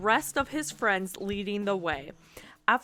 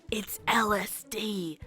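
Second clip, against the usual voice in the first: slow, breathy whisper; slower than usual. A narrator's reading. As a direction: whisper it like a secret. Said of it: "he whispered".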